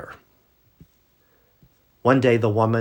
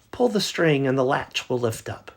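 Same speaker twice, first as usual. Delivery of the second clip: put-on much higher, louder quavering old lady; old lady calling; 8 semitones higher, 4 dB louder than usual. Grandmother in bed calling to the door, high and loud. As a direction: call out like a frail grandmother.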